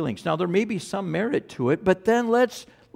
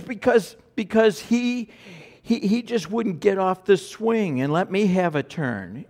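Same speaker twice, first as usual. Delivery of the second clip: put-on higher, whiny kid complaining; a child tattling on her brother; 4 semitones higher than usual. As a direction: play the aggrieved little girl. Child voiced complaining in story.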